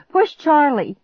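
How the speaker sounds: high, urgent loud command; desperate scream. A narrator's reading. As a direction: yell an order in panic. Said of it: "I screamed".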